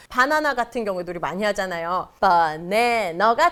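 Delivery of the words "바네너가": "바네너" said as English banana, stressed middle syllable; 정확한 영어 발음. Shown as a demonstration. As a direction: punch the middle of "바네너", reduced vowels around it. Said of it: "정확한 발음입니다". ("바네너"를 가운데 강세 둔 영어 발음으로)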